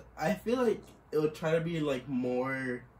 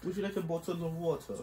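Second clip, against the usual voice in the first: higher-pitched put-on British; British accent; 4 semitones higher than usual. Shown as a demonstration. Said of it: "You can do the British one".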